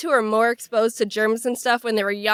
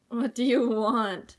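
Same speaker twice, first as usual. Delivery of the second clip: laughing; 4 dB quieter, slower than usual. Real, not acted. Repeats question laughing.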